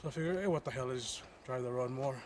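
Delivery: winded and breathy after the climb; out of breath. Real, not acted. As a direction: talk while catching your breath. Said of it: "let me catch my breath".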